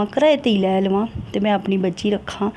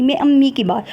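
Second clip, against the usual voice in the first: mocking the co-wife; 4 semitones higher, 4 dB louder than usual. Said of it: "सास के बारे में कहती थी".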